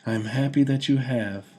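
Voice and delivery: high, bright happy reply; beaming with glee; gleeful. A narrator's reading. Woman gleefully answers her beloved king. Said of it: "she said gleefully".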